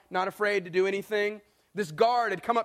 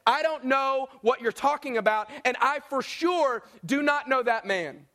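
mildly irate, emphatic denial, higher than usual at first; acted irate denial; 3 semitones higher than usual. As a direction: swear firmly that you don't know him, slowing down. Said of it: "Peter gets irate and says".

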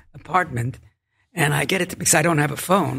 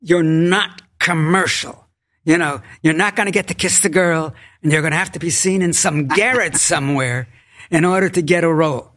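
tipsy vehement. Retold or imitated.

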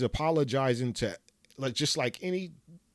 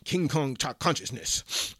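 Umar Johnson impression. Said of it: "in my Umar Johnson repeat voice".

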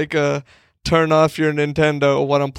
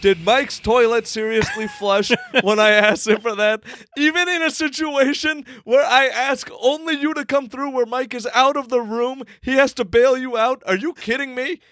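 high-pitched, incredulous outburst; yelling; 8 semitones higher than usual. Real, not acted. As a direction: rant in disbelief, pitch way up. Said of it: "What are you yelling about?".

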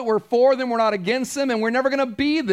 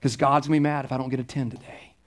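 pleading pastor mock; 5 semitones lower than usual. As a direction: beg politely for a top score. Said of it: "I'd be waiting at the door of the survey going".

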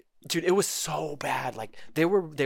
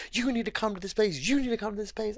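mocking taggers; 10 semitones higher than usual. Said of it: "people are tagging me".

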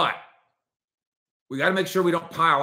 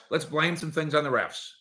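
usual speaking voice

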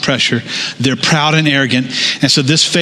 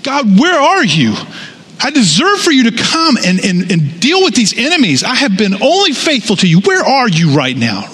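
higher, whiny entitled demand; proud complaining David; 7 semitones higher than usual. Pretend. Preacher voices a proud David accusing God, higher whine. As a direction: sound like you deserve an answer. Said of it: "if David was being proud, he'd say".

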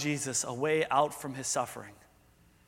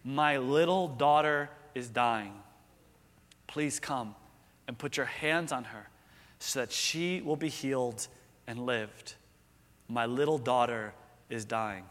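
earnest pleading; 4 semitones lower, 3 dB quieter than usual. Acted. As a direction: beg with a heavy heart, fading out. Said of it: "pleaded earnestly with Jesus".

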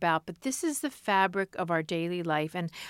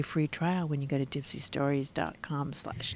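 low, mock-seductive web address; put-on low come-hither voice; sultry Dipsea voice; 7 semitones lower, 7 dB quieter than usual. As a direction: read the plug like a sexy audio story. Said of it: "You can also say it in a normal voice".

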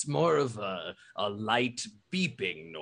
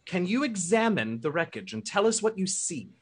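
Major Rafia voice; 5 semitones higher than usual. Acted. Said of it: "Major Rafia sort of interrupts".

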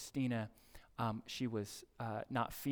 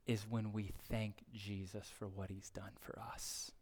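hushed; 4 semitones lower, 7 dB quieter than usual. Real, not acted. Climax of sermon point.

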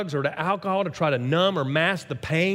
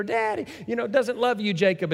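put-on higher, teasing little-kid voice; taunting child; 5 semitones higher than usual. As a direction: needle your brother like a small child. Kid taunting brother to dad.

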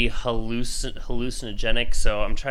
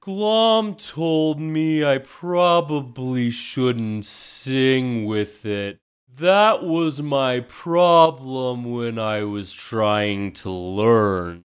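NPC voice; much slower than usual. Acted. Bard NPC answers in character.

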